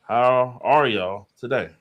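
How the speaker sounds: slow flat robot voice; robotic greeting, evenly paced. Real, not acted. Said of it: "talking like a robot".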